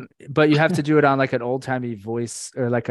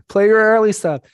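laughing; 8 semitones higher, 8 dB louder than usual. Real, not acted. Laughing while teasing cohost.

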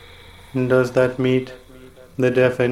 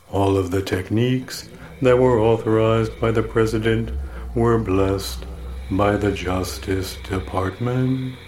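lower voice for Dick; 3 semitones lower than usual. Acted. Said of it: "and a torturer named Dick".

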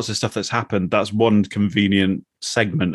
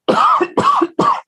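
sharp high cough clearing the windpipe; choking cough; 4 dB louder than usual. Real, not acted. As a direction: cough out whisky gone down wrong. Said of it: "clear the whiskey out of my windpipe".

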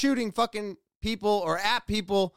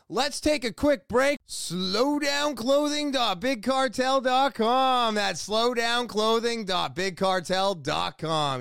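ad read; 2 semitones higher than usual. Acted. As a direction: sell it with punchy, stretched-out key phrases. Reads sponsor promo.

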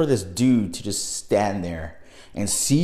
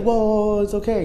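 lightly voiced clown, higher pitch; retold reassurance; 9 semitones higher, faster than usual. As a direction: imitate someone hurriedly settling a scared group. Clown reassures the frightened friends.

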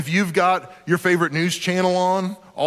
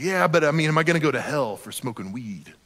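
imitated weed smoker; 2 semitones lower than usual. Teenager pressing his youth pastor about hell, mock stoner voice. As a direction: do a mock stoner, dropping at the end. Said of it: "do his voice like that".

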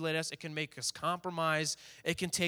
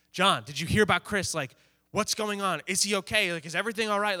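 mildly anxious questions, pitched up; retold worried questioning; 3 semitones higher, 4 dB louder than usual. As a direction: act out checking urgently on a friend. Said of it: "I'm kinda freaking out right now".

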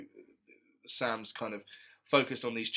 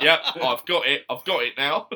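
laughing through the words; amused, half laughing; 3 semitones higher, 7 dB louder than usual. Real, not acted. Laughing at his own joke.

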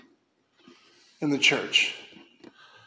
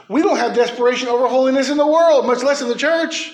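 louder, faster, pushing the point; preaching loudly; 4 semitones higher, 4 dB louder than usual. Real, not acted. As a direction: raise the voice and press on. Preaching builds to a climax.

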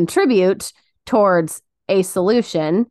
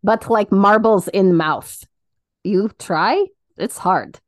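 comic fake Russian accent; put-on Russian accent. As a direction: explain in playful mock Russian accent. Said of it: "Stick to Russian".

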